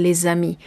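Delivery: "les amis" with the S sounded as z into amis; liaison on les. Shown as a demonstration. Teacher showing students the liaison in "les amis", linked z. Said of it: "aquí tiene que sonar la S junto a la vocal".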